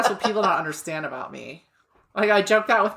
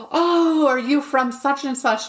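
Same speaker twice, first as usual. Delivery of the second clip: excited question; 7 semitones higher, slower than usual. Retold or imitated. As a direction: gasp then ask, amazed.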